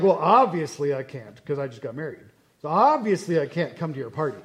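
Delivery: lightly acted brush-off, leaning on "obviously"; unapologetic excuse. Excuse-maker who doesn't apologize.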